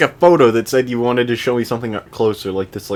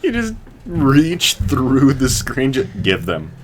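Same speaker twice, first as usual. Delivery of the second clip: slow mock-sinister menace; slow menacing; 3 semitones higher, slower than usual. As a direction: draw it out slowly like a threat. Joking threat, slow voice.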